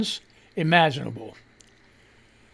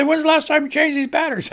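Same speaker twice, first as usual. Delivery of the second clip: higher, fast retold question; furnace guy voice; 8 semitones higher, faster than usual. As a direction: quote the repairman brightly. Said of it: "He said".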